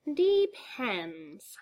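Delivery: sly teasing clown voice; sly Joker voice. Acted. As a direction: toy with him. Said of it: "the Joker said".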